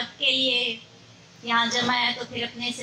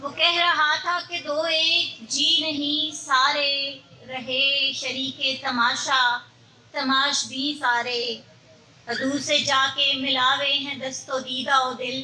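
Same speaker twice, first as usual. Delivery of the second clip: measured Urdu mushaira recital; poetry recitation; slower than usual. Acted. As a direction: recite verse in long, even phrases.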